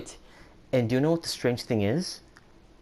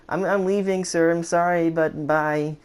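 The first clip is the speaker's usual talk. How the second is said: hasty goodbye; 7 semitones higher, 3 dB louder, slower than usual. Retold or imitated. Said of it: "I was like".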